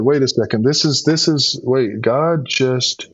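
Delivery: a burst of amazed disbelief, slowing right down at the end; stunned realisation. Retold or imitated. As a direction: blurt it out as it suddenly dawns on you. Retold stunned realisation, voice surging.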